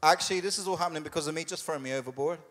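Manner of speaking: quick, offhand admission, lightly acted; casual Jonah. Jonah owning up to the sailors, casually matter-of-fact. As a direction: say it fast and matter-of-fact, as the runaway prophet. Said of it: "he literally says it like that".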